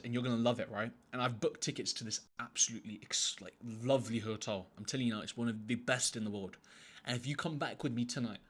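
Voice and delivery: smooth, confident pitch with ups and downs; persuasive sweet talk. Acted. Man talks a girl at dinner into tonight, persuasive sweet talk. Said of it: "an act of how I talk to girls".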